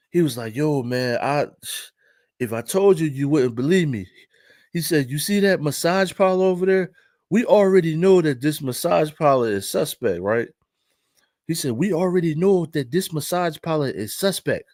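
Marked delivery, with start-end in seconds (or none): 0.6-4.1 lightly imitated African accent; a touch of an African man's English. Parking lot guy confiding in his buddy, light African accent. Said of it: "Imma do the accent". 5.1-10.5 lightly imitated African-accented English. Parking lot guy pointing out the parlor, mild African accent. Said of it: "Imma do the accent". 11.7-14.6 lightly imitated African-accented English. Parking lot guy pointing out the parlor, mild African accent. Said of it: "Imma do the accent".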